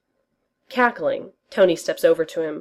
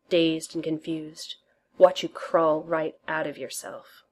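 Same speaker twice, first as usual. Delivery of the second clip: seductive murmur. Acted. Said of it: "whisper the most seductive filth".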